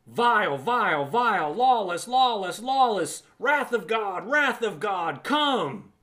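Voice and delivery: lightly mocking fire-and-brimstone chant; a hint of a gloating preacher calling down wrath; mock judgmental preacher. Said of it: "the church is gleefully heaping judgment".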